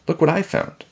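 high-pitched eager call. A narrator's reading. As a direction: call out your find. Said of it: "Jack called".

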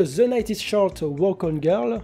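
a self-mocking French take on an English accent; tongue-in-cheek English accent. Real, not acted. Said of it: "avec mon accent anglais de qualité".

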